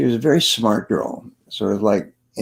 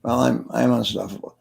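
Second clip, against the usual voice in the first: half-hearted; 3 dB quieter than usual. Retold or imitated. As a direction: say it without believing it, like an unsure audience member. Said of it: "Don't suck your thumb".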